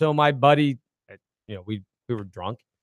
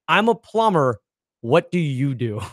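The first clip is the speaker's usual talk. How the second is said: deadpan; 2 semitones lower than usual. Retold or imitated. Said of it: "My buddy goes".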